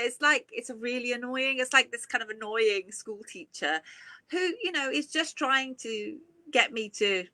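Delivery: normal talking voice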